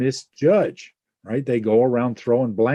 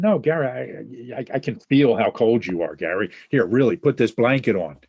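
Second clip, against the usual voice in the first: insistent; 4 dB louder than usual. Retold or imitated. Insisting Gary is cold.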